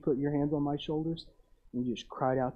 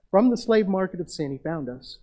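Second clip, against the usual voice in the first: loud, raised-pitch proclamation; emphatic preaching; 5 semitones higher, 8 dB louder than usual. Real, not acted. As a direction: ring it out over the congregation. Preacher drives home redemption point.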